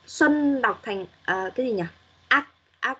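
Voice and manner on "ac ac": "Ac-" hit hard as the first syllable; wrong first-syllable stress. Shown as a demonstration. Teacher showing Xuân's mistake, wrongly stressed first syllable. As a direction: imitate the student stressing "Ac-" at the start. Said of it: "Xuân nhấn vào âm đầu".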